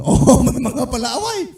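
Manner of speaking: amused chuckle; real laughter over the words; laughing. Real, not acted. Laughing at quarrelsome members.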